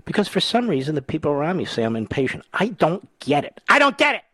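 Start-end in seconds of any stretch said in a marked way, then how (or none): 2.5-3.6 slow, deadpan I don't get it; mock puzzled. Host joking to listeners about being impatient, slow deadpan puzzlement. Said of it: "Oh, just kidding". 3.7-4.2 much higher and louder, a hammed-up outburst; mock exasperated. Host joking that he's impatient, mock exasperated outburst. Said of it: "Oh, just kidding".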